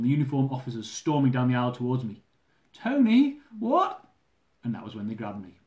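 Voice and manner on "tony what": high, loud panicked question; frightened. Acted. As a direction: cry out in fear. Girlfriend sees armed officers.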